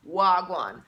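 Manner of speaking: Wagwan in a falling Jamaican lilt; Wagwan, said as one word, tone falling; saying Wagwan. Shown as a demonstration. Greeting the viewer with a Jamaican Wagwan. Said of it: "I must say one".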